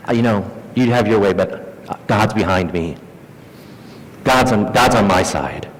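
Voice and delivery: low, self-satisfied churchgoer; unhurried, smug certainty; smugness. Acted. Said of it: "a sort of a smugness".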